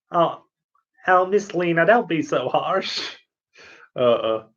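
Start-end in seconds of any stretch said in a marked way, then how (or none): 0.1-3.0 Zelos impression. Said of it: "my impression of Zelos".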